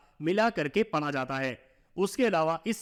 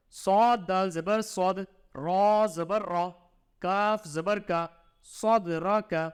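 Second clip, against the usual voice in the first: slow sing-song letter-by-letter reading; measured teacher's drill, syllable by syllable; Qaida spelling recitation; slower than usual. Shown as a demonstration. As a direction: chant each letter and vowel sign for the pupil.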